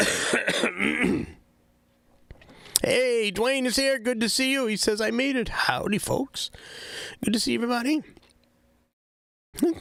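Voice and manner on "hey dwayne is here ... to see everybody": noticeably higher-pitched, excited voice. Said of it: "My voice gets higher".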